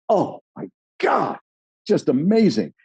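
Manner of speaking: high-pitched foodie swoon; mock rapture. Diner tasting the famous sauce, hammed-up rapture. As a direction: gush over an incredible taste, hammed-up.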